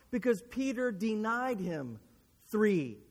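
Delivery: ordinary talk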